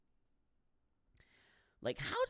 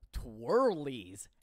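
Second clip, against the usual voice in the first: cutesy; 4 semitones lower than usual. Shown as a demonstration. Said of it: "And I say that word".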